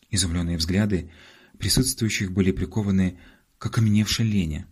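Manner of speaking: usual speaking voice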